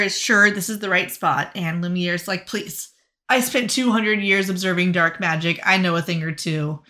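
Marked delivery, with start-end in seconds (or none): 2.5-6.8 lightly put-on accent sliding from Australian to Irish; drifting fake accent. Lumiere boasting to Belle and Neil, mild Australian-to-Irish accent. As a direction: start Australian, end Irish, loosely. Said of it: "started Australian and ended Irish".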